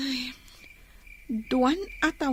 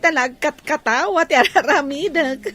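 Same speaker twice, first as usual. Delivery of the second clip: laughing; 5 dB louder than usual. Acted. Laughing at father's jokes.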